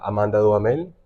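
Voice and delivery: Duhamel said the Spanish way, silent h, stress on the last syllable; Spanish pronunciation. Real, not acted. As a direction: say Duhamel as du-a-MEL, with Latin vowels. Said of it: "You pronounce it correctly".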